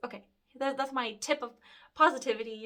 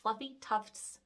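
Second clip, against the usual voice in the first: slow careful slight lisp; slower than usual. Real, not acted. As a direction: ease through the lisp slowly. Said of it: "I have a slight lisp. I have a hard time saying that".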